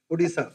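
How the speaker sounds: "Odisha" with s in place of sh; Odisha pronunciation. Shown as a demonstration. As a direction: say "Odisha" as "Odisa". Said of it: "you say Sa".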